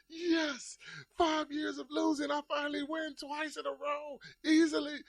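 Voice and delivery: high happy gloating; excited boasting. Retold or imitated. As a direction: crow about finally winning. Celebrating finally winning.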